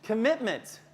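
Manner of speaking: "Commitment" said carefully and proudly; carefully pronounced. Shown as a demonstration. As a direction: show off "Commitment" as a hard word mastered. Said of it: "Did you hear how I said that?".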